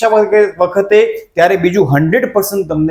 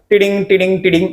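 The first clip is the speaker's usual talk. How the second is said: lightly voiced "ti-ding" alert tones; imitated notification sound; faster than usual. Teacher mimicking incoming message alerts to students, imitated phone ping. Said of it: "અંદર sound આવે".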